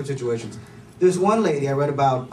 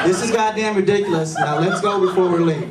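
higher, louder, laughing "ridiculous"; agreeing take; 3 semitones higher, 4 dB louder than usual. Retold or imitated. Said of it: "you're absolutely right".

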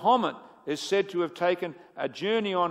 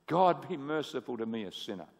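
sincere prayer; 6 semitones lower, 6 dB quieter than usual. Retold or imitated. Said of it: "if we're sincere about it".

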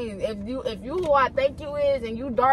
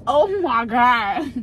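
slow, louder gasp of recognition; stunned oh my God; 6 dB louder, slower than usual. Real, not acted. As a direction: drag it out, floored by the realization. Realizes who the guest is.

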